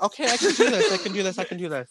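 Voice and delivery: half-hearted talking yourself into it; retold self-encouragement, losing steam; mock pep talk.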